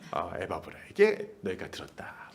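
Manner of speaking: low, soft, mild-mannered voice; acted softness, pitched right down; gentle. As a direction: tell them tenderly, as a meek apostle. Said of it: "아주 부드럽게 얘기를 했어요".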